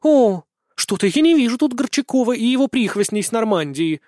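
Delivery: high, loud mocking jibe; spiteful smirk. A narrator's reading. Daughter mocking her father's claim, spiteful smirk. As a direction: sneer it with a nasty grin. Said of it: "злобно усмехнулась".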